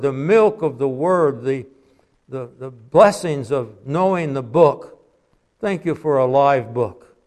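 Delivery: earnest spoken prayer to the Father. Acted. Preacher closing the service in prayer. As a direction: pray it aloud for the church.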